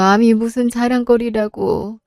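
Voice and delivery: frail mother. Acted. Sick mother voiced by same actress. (아픈 엄마가 딸에게 미안해하며 낮고 조용하게)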